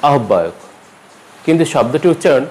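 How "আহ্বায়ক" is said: আহ্বায়ক said "ahobbayok"; hard-b আহ্বায়ক; common mispronunciation. Shown as a demonstration. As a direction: keep h and double b in আহ্বায়ক. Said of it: "প্রায়শই বলতে শুনি".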